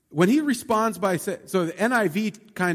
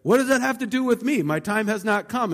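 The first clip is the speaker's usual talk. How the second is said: higher, mock-snippy brush-off to his mother; dismissive tone; 5 semitones higher than usual. Preacher voicing Jesus brushing off Mary, higher and mock-snippy. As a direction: tease it as a curt put-down. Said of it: "he didn't say it with that tone".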